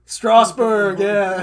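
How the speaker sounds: loud Boston accent. Shown as a demonstration. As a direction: Strasburg said the Boston way. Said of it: "that is a good Boston name".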